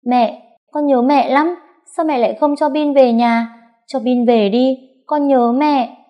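put-on high, loud tearful child; crying plea. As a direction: beg mom through tears. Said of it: "vẫn chưa ngừng khóc". (bé vừa khóc vừa nài nỉ)

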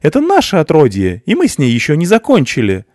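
very high, loud defiant scream; determined. A narrator's reading. Mother screams defiance at the officer, very high and loud. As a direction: refuse them with a shriek.

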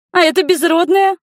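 very high, loud jealous shriek; jealous girl shrieking about her rival; shrieked nastily. A narrator's reading. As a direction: screech it out spitefully. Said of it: "взвизгнула противно Рика".

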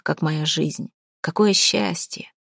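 ordinary delivery, nothing marked

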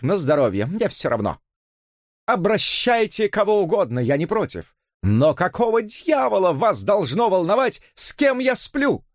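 scornful outburst. Acted. Elisa turns on Susan scornfully.

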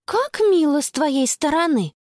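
a sister needling her brother; girl snapping back at her brother; sarcastic. Acted. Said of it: "съязвила Конни".

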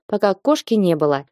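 ordinary delivery

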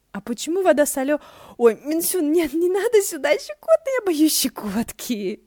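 high, loud giggling protest while being tickled; tickled squeal. Acted. Ши Цинсюань squeals at Минсюн's tickling, high and giggly. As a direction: squeal through the tickling, begging him to stop.

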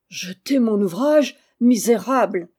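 loud, outraged exclamation; wrathful scolding; angry outcry. A narrator's reading. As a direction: burst out furiously at the culprit. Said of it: "s'écria-t-elle en se levant avec colère".

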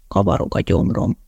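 low, voiceless mutter of a sick man. A narrator's reading. Calvin mutters to his date that his stomach churns. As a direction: mumble it, nauseous and weak. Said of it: "motyogott Calvin".

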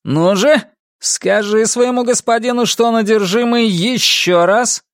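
high, goading demand; shouted dare. A narrator's reading. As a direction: goad him to repeat it. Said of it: "крикнул он".

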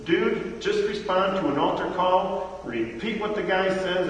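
mock slick recruiter; pushy evangelist. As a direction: hype up a hollow promise. Evangelist voice again.

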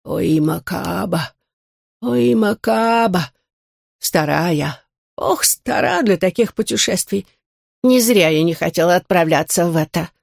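put-on old turtle groaning, low and hoarse; hoarse grumbling old creature. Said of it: "низкий хриплый голос".

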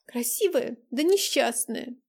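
crying on the phone. Acted. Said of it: "тихо всхлипнула".

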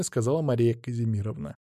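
ordinary delivery

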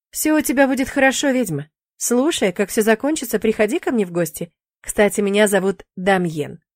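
breezy demon shrugging it off; lightly voiced demon. Demon brushing off the witch's fear, lightly voiced.

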